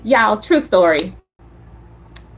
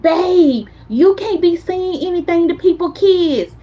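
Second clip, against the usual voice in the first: pleading wife; 5 semitones higher than usual. Retold or imitated. Wife pleading with husband, retold.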